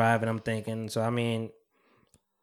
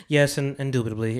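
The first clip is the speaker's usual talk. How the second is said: Diane Sawyer voice. Retold or imitated. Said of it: "got into your Diane Sawyer bag".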